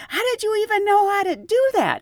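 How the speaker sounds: high, amazed asking; amazed question. Retold or imitated. Attendant asks the trainee how she learned that, amazed.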